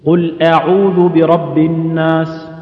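أعوذ chanted slowly with a thin fronted first vowel; light-hamza recitation. Shown as a demonstration. Quran teacher reciting the verse as a model, slow light hamza. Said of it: "احرص على ترقيق الهمزة".

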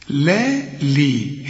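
لي with a thin long LII; very light lam. Shown as a demonstration. Teacher shows lam with kasra, thin drawn-out لي. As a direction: stretch لا لي slowly with a light ل. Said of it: "اللام هنا مكسورة فتكون أكثر رقة".

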